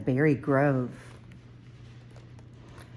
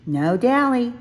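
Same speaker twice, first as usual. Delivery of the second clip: self reminder; 8 semitones higher, 5 dB louder than usual. A narrator's reading. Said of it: "Small Bear thought".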